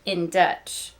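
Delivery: big, loud build to the doll's name; excited storytelling. Acted. Teacher telling kids about Trixie's new doll, excited storytelling. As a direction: sell the new toy like a thrilling surprise. Narrates the surprise gift.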